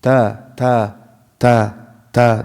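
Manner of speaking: Ta with a clean, unaspirated T; T straight into the vowel, no breath; no hamis. Shown as a demonstration. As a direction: cut the puff of air from Ta. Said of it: "There's no hamis in it".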